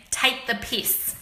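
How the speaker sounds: slow, deliberate "Take the piss"; slow presenting a slang phrase; slow saying. Shown as a demonstration. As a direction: spell out the phrase slowly. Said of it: "an Australian saying".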